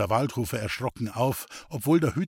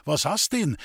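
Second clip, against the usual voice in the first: hoarse shout; 3 semitones higher than usual. Acted. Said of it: "schrie er mit heiserer Stimme".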